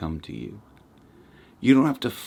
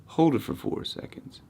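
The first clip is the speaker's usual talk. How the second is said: out of breath; 7 semitones higher than usual. Shown as a demonstration. Demonstrating breathing out, then holding empty.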